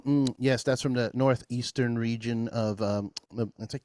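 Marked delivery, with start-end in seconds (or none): 0.0-2.8 snooty connoisseur. Pretend. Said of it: "blindfold, you taste the grains, you go".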